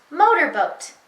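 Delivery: "Motorboat" run together as one word; said fast. Shown as a demonstration. Teacher showing the blended answer, "Motorboat" said in one go. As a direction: join "Motorboat" up with no pause. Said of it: "Say it fast".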